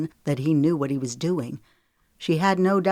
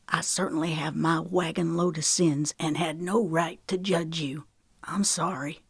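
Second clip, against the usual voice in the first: regretful. Acted. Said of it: "Regret wrapped his voice".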